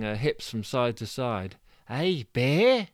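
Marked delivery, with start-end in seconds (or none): 1.9-2.9 higher, louder call to the bear. Acted. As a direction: shout at the bear with shaky nerve. Calls to the bear.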